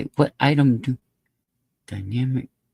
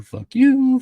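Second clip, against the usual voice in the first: loud mock yell; 7 semitones higher, 6 dB louder than usual. Repeated insult, loud and high.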